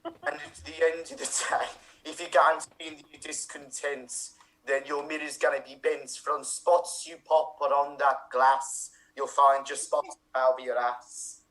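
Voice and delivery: slow mock-grand Scouse verse; rhyming Scouse bard, slow; Scouse Shakespearean. Improviser answering in Scouse verse, slow and grand. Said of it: "Scouse accent ... but also Shakespearean".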